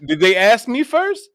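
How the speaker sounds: hammed-up angry sergeant; retold demand. Sergeant demanding if he was asked first, mock anger. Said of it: "He's like".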